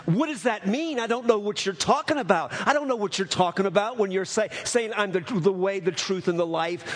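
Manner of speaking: retold agitated bewilderment, quick in places; imitating an emotional, baffled convert; great emotion. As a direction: retell a young man's confused, urgent questioning. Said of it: "in great emotion, this, this, this young man says".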